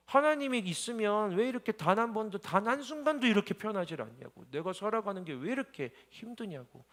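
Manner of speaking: put-on a young man's desperate outcry, recalled; retold crying out. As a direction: relive the shout at God without full force. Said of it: "소리 지르고 울고 외쳤던".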